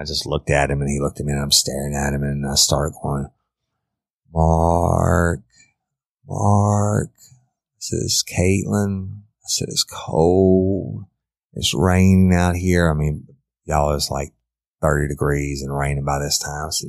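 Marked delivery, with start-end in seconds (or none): 4.3-7.1 a hint of a frightened girl begging her captor; begging girl's voice. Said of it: "a representation of Caitlin's voice begging". 8.0-9.2 lightly voiced, slightly higher pleading teen girl; a hint of a frightened girl begging her captor; begging girl's voice. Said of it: "a representation of Caitlin's voice begging". 9.7-12.9 lightly voiced, slightly higher pleading teen girl; a hint of a frightened girl begging her captor; begging girl's voice. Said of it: "a representation of Caitlin's voice begging".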